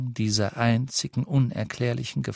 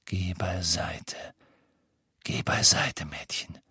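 unvoiced, menacing whisper; whispered threat; 3 semitones lower, 3 dB quieter than usual. A narrator's reading. Voldemort whispers a threat at the mother. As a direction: breathe the threat at her.

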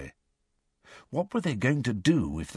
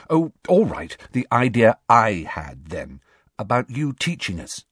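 Hermione's voice; 4 semitones higher, 4 dB louder than usual. A narrator's reading. Hermione gives in.

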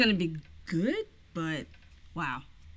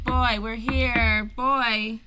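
drawn-out call through the house; 2 semitones lower, 3 dB louder, slower than usual. Acted. Visitors arriving to check on boy, calling out. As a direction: call to let him know you've arrived.

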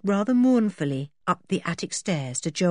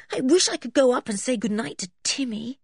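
lightly voiced wistful girl; 6 semitones higher than usual. George voiced, wistful in story.

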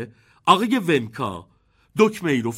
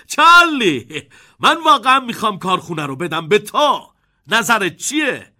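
laughing while talking; 5 semitones higher, 7 dB louder than usual. A narrator's reading. Wonka, laughing, offers Charlie the factory. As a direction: still chuckling as he speaks. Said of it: "با صدای بلند خندید".

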